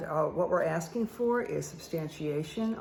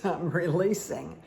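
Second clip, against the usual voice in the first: ordinary delivery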